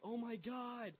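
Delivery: high wail at normal volume; mock panicked wail. Player running off hurt, retold high panicked cry. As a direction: imitate yourself panicking as you run off. Runs off after screaming in pain.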